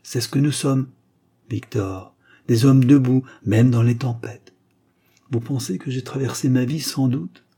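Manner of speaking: a father driving the lesson home; proud stern father. Acted. Father teaching his son the crest, proud.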